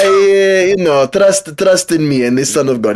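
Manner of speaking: high mock Saudi accent, settling down; mock Arab accent. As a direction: coax in a hammed-up Arab accent. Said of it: "Is he from Saudi Arabia?".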